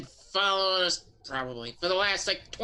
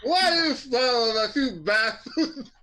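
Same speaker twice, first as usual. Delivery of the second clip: talking with tongue sticking out; 8 semitones higher, slower than usual. Acted. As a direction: speak with tongue out. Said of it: "talk with your tongue out".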